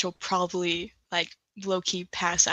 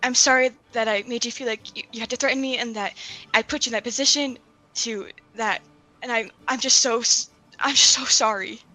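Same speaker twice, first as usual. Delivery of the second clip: halting, stumbling apology; stuttering. Acted. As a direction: trip over the words. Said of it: "stuttering out her words".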